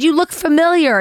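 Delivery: lightly voiced confused hiker; puzzled old woman. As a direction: peer at her, half-recognising. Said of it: "she said".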